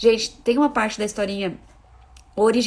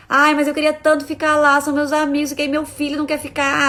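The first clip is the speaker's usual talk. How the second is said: higher, louder complaining mom voice; mock whiny parent; 5 semitones higher, 5 dB louder than usual. A parent whining to a friend, mock whiny voice. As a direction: whine like a parent putting her own wants first.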